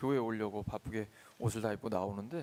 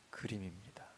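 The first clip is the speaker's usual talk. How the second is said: breathy hushed whisper; 3 semitones lower, 8 dB quieter than usual. Real, not acted. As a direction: drop to a whisper on the last word. Sermon, sudden hushed word.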